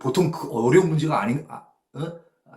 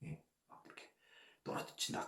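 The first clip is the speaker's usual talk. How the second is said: softer, breathy whisper; 22 dB quieter than usual. Shown as a demonstration. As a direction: hush as drops fall. Hushed depiction of falling drops.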